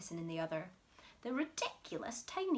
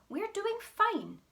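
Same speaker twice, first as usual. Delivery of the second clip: much higher, louder and slower; insistent cry; 13 semitones higher, 9 dB louder, slower than usual. Acted. Mister Cranky insisting to his wife. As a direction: insist loudly, drawing it out. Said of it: "cried Mister Cranky".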